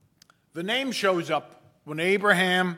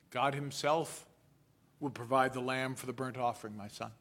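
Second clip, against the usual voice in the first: low, soft, sorrowful father; tearful sigh; 4 semitones lower, 8 dB quieter than usual. Acted. Abraham answers his son Isaac, sad and subdued. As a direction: let it sink quieter toward the last words. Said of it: "tears in Abraham's eyes as he sighs and says".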